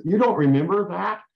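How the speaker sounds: hint of an angry wife yelling at her husband; retold yelling. Wife yelling at husband who forgot, mock yell. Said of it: "she started yelling and screaming at him".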